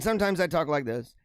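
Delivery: slightly stronger, projected demo voice; fuller volume. Shown as a demonstration. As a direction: bring the volume back up a little. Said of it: "it's all different with the volume".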